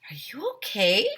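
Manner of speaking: hushed, worried whisper; Emily whispers to the zombie-like teacher. Acted. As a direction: breathe it out with no voice.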